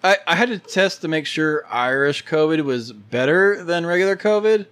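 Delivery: sneering fake sweet; mean girl voice. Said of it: "Why are you talking like a mean girl?".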